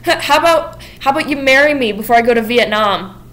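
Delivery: high, loud, hurried mock panic; lightly voiced flustered suitor; flustered backpedaling. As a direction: scramble to take it back. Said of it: "Monty's trying to fix it".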